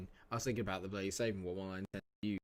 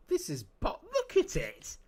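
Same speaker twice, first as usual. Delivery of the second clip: exasperated outburst; 5 dB louder than usual. Real, not acted. Frustrated at parked bus.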